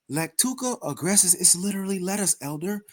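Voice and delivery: mock humble. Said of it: "he be trying to sound humble".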